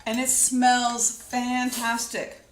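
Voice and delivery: talking around chewing gum. Real, not acted. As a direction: gum in the mouth, a bit slow. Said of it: "Oh, I got gum in my mouth".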